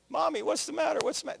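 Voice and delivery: put-on high, soft small-child voice; a frightened toddler asking mommy softly; little child asking. Toddler asks weeping mother.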